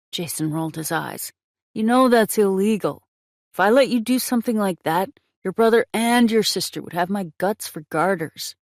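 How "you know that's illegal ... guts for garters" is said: louder and higher, a friend scolding; exasperated scolding. Acted. Jason scolds Trick over his illegal casino, exasperated and louder. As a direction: rein him in, half laughing at the idea.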